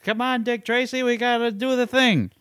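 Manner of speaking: high, pushed-up action hero voice; Harrison Ford impression. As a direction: play a gruff movie hero, pitched high. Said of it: "My Harrison Ford drifted into Shaquille O'Neal".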